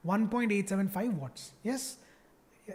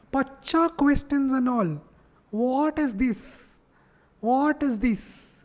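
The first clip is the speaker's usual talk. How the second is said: slow, drawn-out sarcastic disbelief; mock shock at a baby question; 4 semitones higher, much slower than usual. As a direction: stretch it out like it's outrageous. Sarcastic mock outrage at easy questions.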